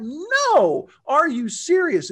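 loud, high, slowing disbelief; as if she can't mean it; incredulous. Retold or imitated. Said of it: "On the inside, I'm like".

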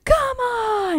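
high-pitched exasperated echo; mock outrage. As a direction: whine it out in exaggerated protest.

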